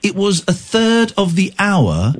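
slow, deliberate phrases with swooping high stresses; emphatic lecturing. Real, not acted. Host setting an annoyed caller straight about George, emphatic lecturing. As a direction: spell it out firmly, pitch climbing as you insist.

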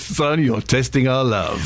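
slow, lightly voiced imitation of dad; a hint of American dad, drawn out; dad impression. Son recalling his dad's catchphrase, lightly imitated. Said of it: "do an impression of your dad".

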